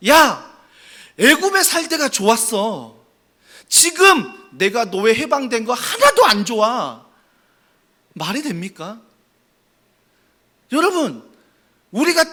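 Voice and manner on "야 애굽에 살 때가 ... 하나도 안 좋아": grumbling. Acted. Israelites grumbling about leaving Egypt, mild mock sulk. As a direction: sulk about freedom, lightly acted. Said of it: "뭐라고 원망해요".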